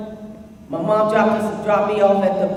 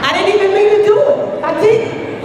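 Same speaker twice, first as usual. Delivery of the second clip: squeaky high voice; 10 semitones higher than usual. Real, not acted. Girl answering her crush, suddenly squeaky high. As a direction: voice flying up high and fast. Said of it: "this is my normal voice".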